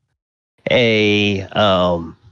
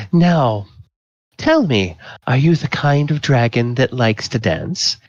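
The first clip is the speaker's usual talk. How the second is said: higher, leaning-in tipsy flirt; tipsy woman; 4 semitones higher than usual. Acted. Tipsy woman asking the dragon to dance, higher and flirty. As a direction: breathe it in close, a bit drunk. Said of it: "you can smell the alcohol on her breath".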